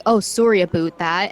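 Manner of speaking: imitated Canadian accent with oo in "about". Player retells meeting a friend from Vancouver, mimicking Canadian accent. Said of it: "who is from Canada".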